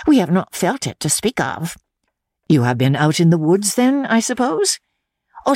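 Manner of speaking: a hint of a deferential servant girl; respectful maid answering her mistress. Maid voiced.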